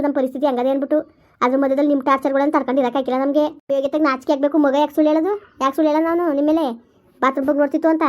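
angry scolding. Acted. Woman loudly shames the man who peeped at her.

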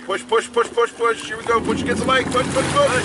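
coaching call. Real, not acted. Coaching kids skiing from boat.

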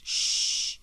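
hushing shush. Acted. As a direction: hush him without voice. Neighbour hushing Paul.

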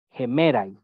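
"gemerais" begun with a Spanish J sound; rough breathing as J. Shown as a demonstration. Teacher showing a student the Greek rough breathing, initial J sound in "gemerais". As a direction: say "gemerais" with the opening consonant sounded like Spanish jota. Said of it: "es el que suena como J".

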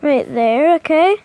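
excited. Real, not acted. Player urging game piece.

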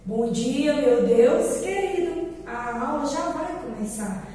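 teacher reciting a classroom prayer. Real, not acted. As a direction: lead little ones through a simple rhymed prayer. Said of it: "Vamos rezar".

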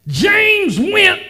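high, ringing preacher's cry; preaching fervour. Acted. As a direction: lift the voice high as Peter's hope. Preacher voices Peter, rising fervour.

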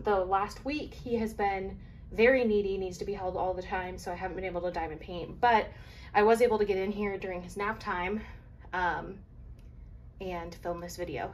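breathless from summer heat; heavy breathing between words. Real, not acted. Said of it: "if I sound out of breath and whatnot".

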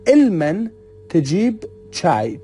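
علما rising, تجیب چای said slowly; slow clear Arabic example. Shown as a demonstration. Teacher repeating the example slowly, علما rising then تجیب چای drawn out.

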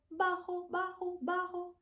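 high little voice; short voice. Shown as a demonstration. Teacher showing bajo in a high little voice. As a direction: lift each bajo up small. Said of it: "tall and short".

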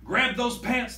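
high, loud pirate order; commanding pirate captain; captain roars. Acted. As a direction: roar the command at the crew. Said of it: "the captain roars".

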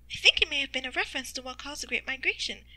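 a hint of a pondering mother; thoughtful mother. Mother answers in narrated story.

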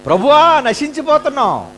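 high, panicky cry to the master; frightened plea. Retold or imitated. Disciples pleading in storm.

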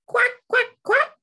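high, loud little duckling quacks. Acted. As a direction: quack quickly like tiny ducklings. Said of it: "say the ducklings".

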